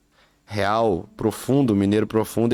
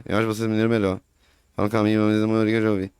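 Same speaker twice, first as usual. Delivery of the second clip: put-on fast, slurred Valadares mineiro accent; mumbled Minas Gerais accent from Valadares; faster than usual. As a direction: run the words together like a Valadares local. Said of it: "é assim que o povo fala".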